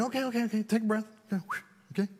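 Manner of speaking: soft, hushed self-talk, breathing out; talking himself down quietly; quiet self-soothing with a sigh; calming himself down. Retold or imitated. Calming himself after the call.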